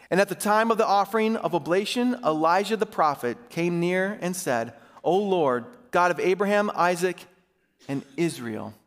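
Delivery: measured, emphatic public Bible reading; Scripture reading. A narrator's reading. Pastor reading Elijah's showdown to his church, emphatic Scripture reading. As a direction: read it out formally, phrase by phrase.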